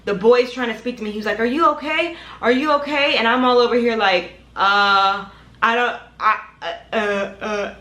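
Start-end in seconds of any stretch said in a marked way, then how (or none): 1.4-3.2 higher, lightly voiced worried boy; imitated concerned boy. Boy checks on her, voiced. 4.5-7.7 imitating being lost for words; sounding slow. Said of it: "sounding like I'm slow".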